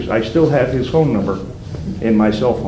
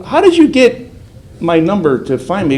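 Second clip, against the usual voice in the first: alarmed question; 6 semitones higher than usual. Retold or imitated. His own alarmed question retold.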